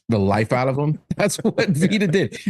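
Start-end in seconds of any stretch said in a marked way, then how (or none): 1.1-2.4 laughing through the words; amused laughing line. Real, not acted. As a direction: chuckle as you say it.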